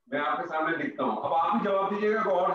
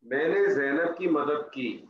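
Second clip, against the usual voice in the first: slow dictation; 3 semitones lower, slower than usual. Shown as a demonstration. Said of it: "ٹھیک ہے".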